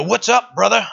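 mock chummy greeting, pitched well up; casual buddy greeting. Believer greeting God too casually, mock chummy. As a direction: toss it out like an overfamiliar pal. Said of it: "approach to".

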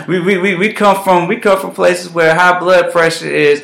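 light laugh through the words; laughing while speaking. Real, not acted. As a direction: smile and laugh as you say it. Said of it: "I laugh and smile as I say this".

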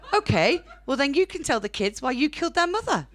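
high, loud winning retort; hammed-up victory in the argument; triumphant comeback. Acted row with partner.

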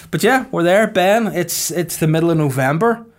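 pumped-up shout to Ben about November; bursting in loud and high; loud excited call. Real, not acted. Host loudly rousing his co-host about Christmas, excited.

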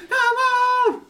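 high loud shaman call; shaman cry. Pretend. Gamer doing a second shaman call, high and loud. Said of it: "who can do the best shaman".

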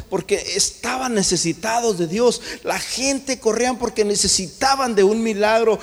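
driving preacher's proclamation; impassioned preaching. Acted. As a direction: preach it out to the congregation. Preaches at full force.

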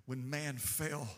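hushed preaching. Acted. Preacher to congregation, mourning Jesus' death, low hushed voice. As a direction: drop to a near hush as if at a graveside. Hushed retelling of hell's reaction.

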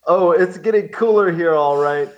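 mock-enthusiastic letter read; all-caps excitement. Shown as a demonstration. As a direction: read it like it's shouted in capitals. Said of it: "written in all caps".

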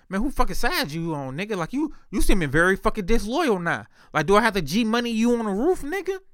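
retold indignant challenge; indignant confrontation. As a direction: confront a friend over loyalty, pitch climbing. Acts out confronting disloyal best friend.

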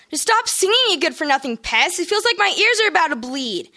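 fed-up big sister roaring at her singing siblings. Acted. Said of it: "Paula roared".

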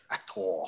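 "actor" slowly, with a long open "-TOR"; slow, theatrical "ac-TOOR" with a big O; hard O. Acted. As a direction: draw out the last syllable of actor grandly. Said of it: "with the hard O".

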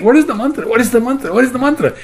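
high, repeated searching question; acted groping for forgotten words; trying to remember. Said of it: "He's trying to think".

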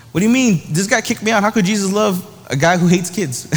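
mock disbelief, as a wronged child; incredulous objection. A kid kicked out questioning Jesus's love, in disbelief.

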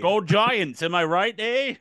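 Australian bit slipping into Canadian; put-on accent ending on a high Canadian "eh"; accidental Canadian accent. Host jokes as a local fan, accent drifting Canadian. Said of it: "now you're talking about Canadian".

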